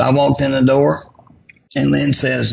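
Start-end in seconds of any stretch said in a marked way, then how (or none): none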